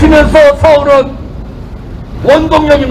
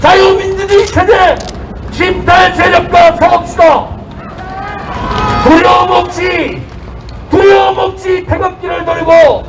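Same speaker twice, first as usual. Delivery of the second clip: rousing rally shout; 3 semitones higher than usual. Real, not acted. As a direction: rouse the crowd to fight. Rally speaker leads crowd to fight.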